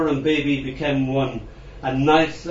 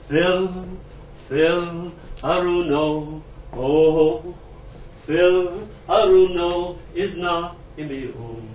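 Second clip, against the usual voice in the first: raised, higher call of a name; 4 semitones higher, 3 dB louder, much slower than usual. Acted. Grieving voice calling out a name, a touch raised.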